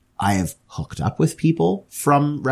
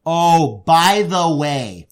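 mock casual admission; 6 semitones higher, 4 dB louder, much slower than usual. Roommates confessing the lost ball.

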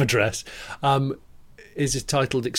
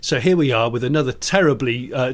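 goading Noel impression. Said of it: "Noel's just goads him and goes".

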